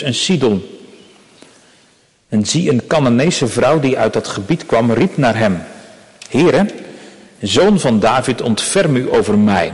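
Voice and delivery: measured, solemn reading of a Bible passage; scripture reading. Acted. Preacher reading scripture aloud to the congregation, solemn and measured. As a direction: read the text to the congregation with gravity.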